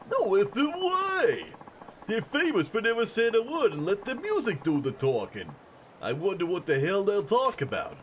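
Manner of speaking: very high, loud squeal of disbelief; over-the-top high fan voice, thrilled; amazed superfan. Acted. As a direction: shriek it like a starstruck fan. Voices astonished fan in game.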